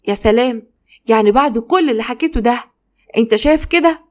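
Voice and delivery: can't believe he takes her side; indignant wife. Acted.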